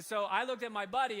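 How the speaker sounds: laughing through the lead-in. Real, not acted. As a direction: chuckle as you tell it.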